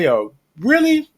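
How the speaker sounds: high, drawn-out mock disbelief; incredulous retold. Telling the co-host her outraged reply, high and slow. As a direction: stretch "really" up high, outraged. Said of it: "I'm like".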